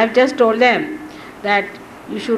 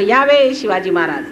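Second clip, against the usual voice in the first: honorific welcome; 3 dB louder, much faster than usual. Retold or imitated. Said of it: "तर मग म्हणायचं".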